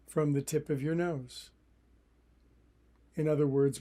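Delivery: calm, even meditation guidance with long pauses; unhurried meditation teacher, phrase by phrase; guided meditation. Acted. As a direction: guide listeners into relaxing, leaving room to breathe.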